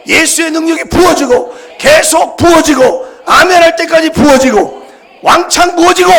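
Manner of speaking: building from strong to full-throated shouting, high; rising preaching shout. Real, not acted. Pastor crying out to the congregation for power, building to a shout.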